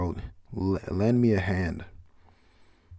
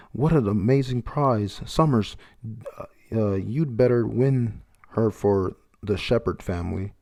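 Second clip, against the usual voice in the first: gloating noble; 2 semitones higher than usual. Acted. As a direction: savour the prize like a spoiled aristocrat. Celestial dragon gloats over prize.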